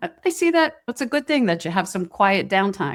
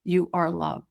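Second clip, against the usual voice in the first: gentle self-talk; 2 semitones lower, 4 dB quieter, slower than usual. Shown as a demonstration. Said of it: "and you say".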